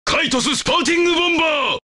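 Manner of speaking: rapid-fire battle shout; fast, forceful attack cry; shouted attack call. Acted. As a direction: rattle off the special move in a shout. Attack name called out in battle.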